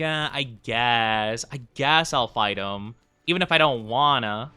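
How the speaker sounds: slow, grudging agreement; reluctant. Retold or imitated. Player agreeing to fight a tricky monster, reluctant. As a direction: drag it out, giving in unwillingly.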